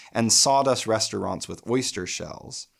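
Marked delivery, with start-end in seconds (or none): 1.5-2.7 breathy whispered aside; whispered mid-sentence while scanning the line. Real, not acted. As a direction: drop to a whisper on the words. Drops to whisper mid-scansion.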